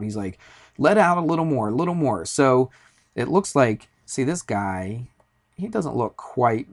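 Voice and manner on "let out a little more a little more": mildly raised, higher retold shout; mock yell. Ranger at the top instructing a nervous climber, mock yelling. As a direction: imitate someone calling instructions from above. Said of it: "the guy's yelling at me".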